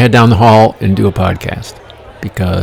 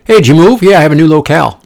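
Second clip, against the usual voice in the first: louder, higher mock exchange; mock dialogue; 6 semitones higher, 6 dB louder, faster than usual. Imagined friends chat about a new locale, mock. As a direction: ham up the fancy word. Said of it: "no one's ever said it".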